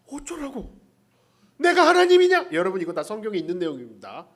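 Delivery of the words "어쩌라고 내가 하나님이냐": louder, higher, stress on 하나님이냐; irritated retort. Retold or imitated. Jacob snapping at Rachel, stress on 하나님이냐. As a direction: snap back, punching 하나님이냐 hard and high. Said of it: "막 승질이 나".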